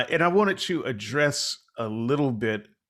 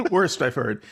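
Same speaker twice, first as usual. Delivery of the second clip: laughing; 3 semitones higher, 4 dB louder than usual. Real, not acted. Repeats verdict while laughing.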